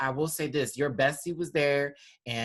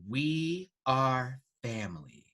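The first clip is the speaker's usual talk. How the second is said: slow category announcement in usual pitch; runway announcer; much slower than usual. Pretend. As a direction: announce it slowly, word by word. Announces runway category, first take.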